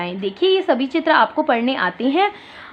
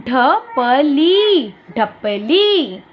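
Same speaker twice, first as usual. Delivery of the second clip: slow teacher model; much slower than usual. Shown as a demonstration. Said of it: "तो ढपली में देखिए बच्चों".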